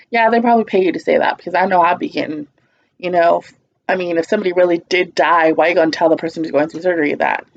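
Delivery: quick sarcastic retort, slightly fast. Retold or imitated. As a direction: fire it off with mock sarcasm. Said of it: "my sarcastic self was like".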